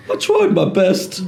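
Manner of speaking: slow, deflated shrug of a line; a bored priest excusing himself, slowed right down; lethargic Cohen. Retold or imitated. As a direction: drag it out like you can't be bothered. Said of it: "they're all going".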